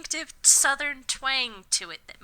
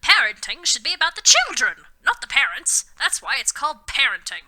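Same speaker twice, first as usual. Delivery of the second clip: lightly voiced Dumbledore; 6 dB louder than usual.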